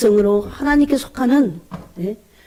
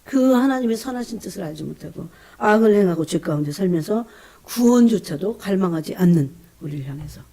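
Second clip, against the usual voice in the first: ordinary talk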